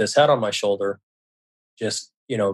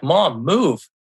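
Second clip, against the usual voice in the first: higher-pitched whiny objection; exasperated protest; 5 semitones higher than usual. Retold or imitated. Son to his teasing mom, exasperated protest. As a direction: imitate a son fed up with teasing.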